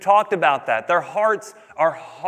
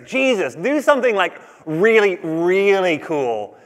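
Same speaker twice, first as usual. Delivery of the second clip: mock whiny Pharisees; slower than usual. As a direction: play the Pharisees nagging Jesus for a show, lightly. Pharisees voiced demanding a sign.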